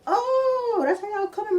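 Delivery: shocked outcry. Retold or imitated. She cries out at the mom sending the girl at her, high and shocked. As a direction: squeal it out in outraged surprise. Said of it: "I'm like".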